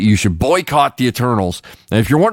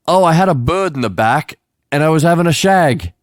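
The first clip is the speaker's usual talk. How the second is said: higher-pitched, hammed-up British accent; 6 semitones higher than usual. Rolls-Royce owner explaining himself to police, exaggerated British accent. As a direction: quote it as absurdly British. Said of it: "So British it hurts".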